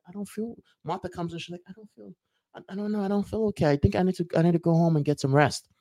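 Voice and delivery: weak unwell voice. Retold or imitated. Martha now feeling unwell.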